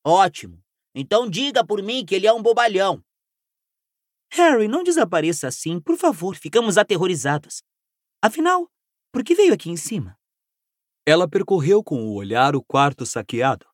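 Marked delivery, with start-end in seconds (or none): 0.0-3.0 fast, distant annoyed voice; grumpy shout from far below. Acted. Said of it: "A voz aborrecida de Rony". 4.3-10.2 worried scolding. Acted.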